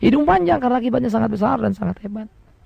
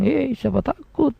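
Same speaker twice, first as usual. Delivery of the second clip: cheeky Maria; slower than usual. Retold or imitated. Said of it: "Lalu Maria bilang".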